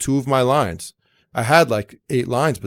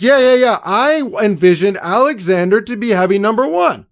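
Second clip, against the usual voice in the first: much higher, louder insistence; insistent director; 6 semitones higher, 6 dB louder than usual. Retold or imitated. The director overruling his assistant, much higher and louder. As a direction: push it through like the boss deciding. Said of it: "He's like".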